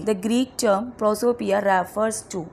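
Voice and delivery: reads the question very slowly, word by word; spaced-out quiz reading; slow dictation read. Acted.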